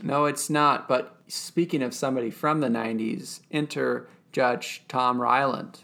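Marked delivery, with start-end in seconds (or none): 3.5-5.8 mock announcer. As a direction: present a star with deliberate pomp. Mock grand introduction of an actor.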